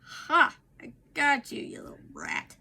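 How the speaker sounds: sudden triumphant "Ha!" then gleeful hiss; triumphant gotcha. Real, not acted. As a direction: pounce on it with glee. Catches a nose hair.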